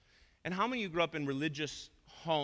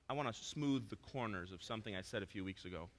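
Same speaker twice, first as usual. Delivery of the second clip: gentle; 4 semitones lower, 6 dB quieter than usual. Real, not acted. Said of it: "I should probably really gently just say".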